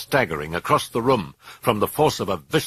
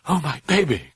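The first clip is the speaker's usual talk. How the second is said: high, distressed whimper; 7 semitones higher than usual. A narrator's reading. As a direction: whimper in anguish. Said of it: "Chris whimpered".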